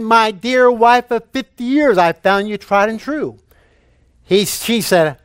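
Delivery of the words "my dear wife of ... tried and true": higher-pitched, mildly raised husband's voice; repeating for hard-of-hearing wife. Retold or imitated. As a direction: repeat the tribute so she can hear. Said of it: "she had difficulty hearing".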